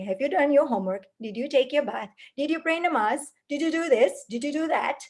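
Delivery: rapid-fire nagging questions, fast; nagging checklist. Retold or imitated. Anxious parent hovering over child, fast nagging. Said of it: "constantly checking".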